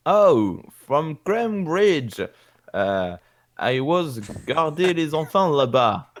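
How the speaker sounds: put-on slow, stretched French-accented English; halting Franglais with a heavy French accent. Igor making small talk with Jotaro, French accent. Player answers in broken Franglais.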